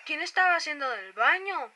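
loud slow accusing question; mock accusation. Real, not acted. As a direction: demand who did it, drawn out. (acusación burlona)

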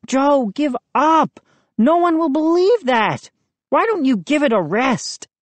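worried friend explaining, lightly played; boy Moose. A narrator's reading. Moose voiced by narrator.

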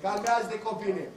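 calming. Real, not acted. Coach to Radu, telling the child to calm down, calming. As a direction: settle the player down, low and easy. Coach calms a flustered player.

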